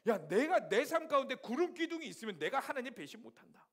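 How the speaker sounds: mock scolding shout. Scolding the Israelites.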